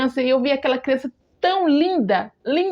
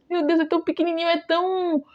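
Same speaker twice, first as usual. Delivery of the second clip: tender cooing; 4 semitones higher, faster than usual. Retold or imitated. Mother looking at her newborn, tender cooing. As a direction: coo over something tiny and helpless.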